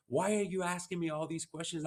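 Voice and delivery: a touch of mom's playful puzzlement; mom teasing. Retold or imitated. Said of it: "she would say".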